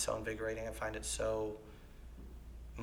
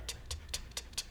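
stutter imitation; 9 dB quieter, much faster than usual. Shown as a demonstration. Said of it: "when I listen for stutter, it's like".

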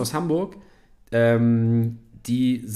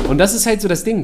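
higher, louder, still laughing; 8 semitones higher, 6 dB louder than usual. Real, not acted. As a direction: shake off the laugh while talking. Still laughing after quote. (noch lachend)

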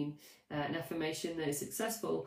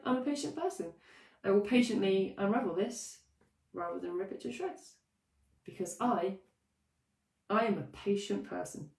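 convinced; 3 semitones higher than usual. Shown as a demonstration. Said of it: "See how it works".

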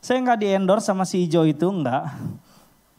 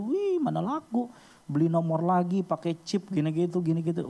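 scoffing past self; 3 semitones higher, 4 dB quieter than usual. Retold or imitated. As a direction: sneer like he did back then at "Wih, mana laku". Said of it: "Ini saya nih waktu itu".

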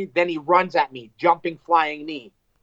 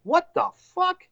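startled; 14 semitones higher than usual. Retold or imitated. Smelling salt jolts him awake.

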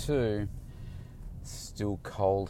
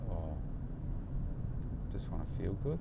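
flat client; 5 semitones lower, 11 dB quieter than usual. Retold or imitated. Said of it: "He said".

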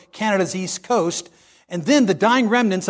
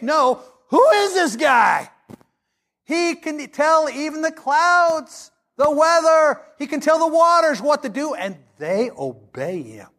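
amazed; 7 semitones higher than usual. Retold or imitated. Disciples' amazement at Jesus.

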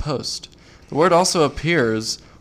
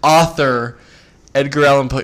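laughing; 6 dB louder than usual. Real, not acted. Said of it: "You're making me feel self-conscious".

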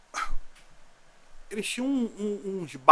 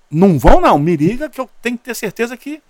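urgent retold plea; 7 semitones higher, 10 dB louder than usual. Retold urgent phone call.

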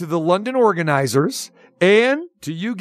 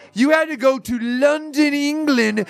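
higher-pitched put-on English accent; Paul Buck Power Stewart, English accent; 6 semitones higher than usual. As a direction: imitate an English broadcaster, pitched up. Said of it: "How's my Paul Buck Power Stewart voice doing right now?".

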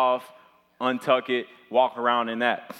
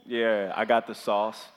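swagger smirk; 3 semitones lower, slower than usual. Retold or imitated. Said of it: "smirk on my face".

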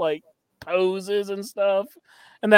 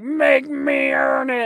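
mock Cody scream; 7 semitones higher, slower than usual. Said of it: "all screaming on Raw".

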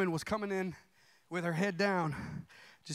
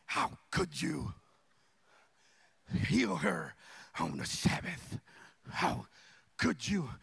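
mock upset leader. Preacher mocking the synagogue leader's tantrum, whiny. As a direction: sulk like a spoiled leader. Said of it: "the leader was so upset, tantrum, little baby".

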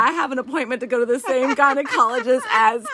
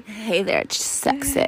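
sexy voice; much slower than usual. Pretend. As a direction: purr it out flirtatiously. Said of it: "That was Piper's sexy voice".

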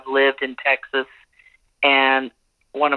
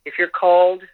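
reading aloud; 2 semitones higher than usual. Acted. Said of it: "I'm gonna read you something".

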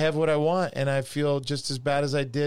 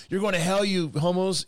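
higher, mocking fire-and-brimstone voice; mock condemnation; 7 semitones higher than usual. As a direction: parody a judgmental preacher. Imitating a condemning preacher.

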